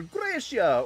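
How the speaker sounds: imitated ancient Greek accent; put-on Greek accent. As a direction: say "Graecia" like a native, hammed-up. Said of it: "they would say it in their accent".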